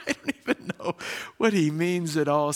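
laughing through a bemused thought. Retold or imitated. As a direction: chuckle while you say it, baffled. Speaker laughs recalling confusion.

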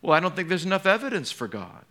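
lightly voiced scoffing unbeliever; skeptic voice. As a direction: toss off the doubter's excuse. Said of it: "People hide behind unbelief".

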